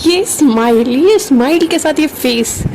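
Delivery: lightly hammed-up flirty admiration; playful swooning. Flirt gushing over her crush's smile, playfully swooning.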